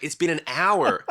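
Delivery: drawn-out, exasperated retelling; exasperated retort. Retold or imitated. Musician retelling his reply to a long-winded producer, exasperated. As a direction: stretch it out, fed up with waiting.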